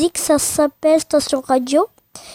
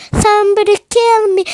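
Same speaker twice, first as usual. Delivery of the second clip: réplique imitée; 6 semitones higher, 3 dB louder than usual. Retold or imitated. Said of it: "le somebody kill me".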